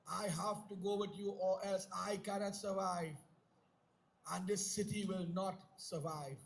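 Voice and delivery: low, soft and grave; solemn plea. Acted. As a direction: drop to a hushed, earnest plea. Lakshman pleads to stay with Ram.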